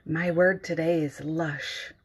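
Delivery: normal talking voice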